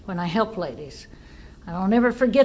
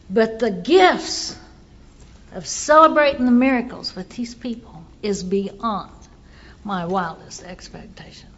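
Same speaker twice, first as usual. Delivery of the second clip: awed gratitude. Real, not acted. Closing gratitude, slowing then whispering.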